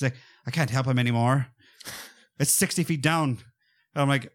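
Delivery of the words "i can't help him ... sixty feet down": imitated accent drifting away from American; slipping non-American accent. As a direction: let the American accent slip, mimicking the actor. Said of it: "abandoning the American accent".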